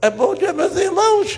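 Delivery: acted-out frozen-up, locked-up, very high-pitched voice. Retelling how a young man froze when given the chance to speak, imitating a voice frozen up. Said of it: "o cara travou de tal forma que a voz ficou".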